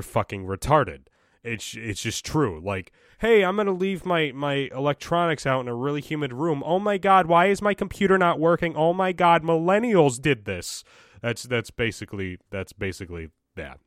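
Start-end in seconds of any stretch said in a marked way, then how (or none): 3.2-10.8 high, loud mock panic; hammed-up clueless boomer wailing in alarm; mock outraged boomer. Podcaster mimicking boomers blaming millennials, hammed-up outrage.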